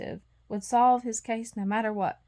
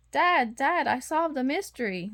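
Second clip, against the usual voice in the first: excited exclaim; 4 semitones higher than usual. Acted. Puppy proudly telling his dad he solved a mystery. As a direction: burst out with the big news. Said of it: "Lucky exclaimed".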